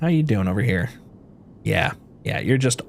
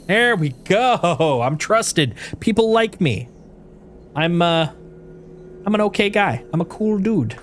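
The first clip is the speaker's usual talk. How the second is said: 1 smug relief; 5 semitones higher than usual. Real, not acted. The roll succeeds, smug relief.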